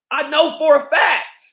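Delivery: shouted insistence. Real, not acted.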